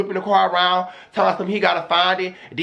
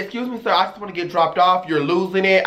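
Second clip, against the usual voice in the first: fake proper politeness. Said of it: "I started doing stuff like that".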